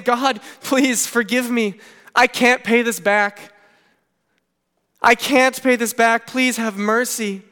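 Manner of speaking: slow, drawn-out plea for mercy; mildly acted begging, weighting each word; earnest pleading. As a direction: plead slowly, as if praying. Acted sinner begging God for mercy.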